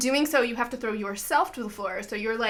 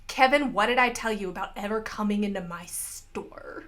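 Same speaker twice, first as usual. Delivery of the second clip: a hint of a scolding old woman; lightly voiced Mabel scolding Kevin; stern shopkeeper. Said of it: "And she goes".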